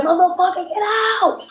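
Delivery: retold scream. Homeowner screaming at crackhead in kitchen, retold yell. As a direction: act out screaming an intruder away. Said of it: "I was screaming from the top of my lungs".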